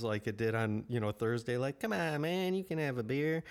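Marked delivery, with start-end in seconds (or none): 1.8-3.4 persuasive coaxing. Retold or imitated. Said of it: "good-hearted, persuasive means".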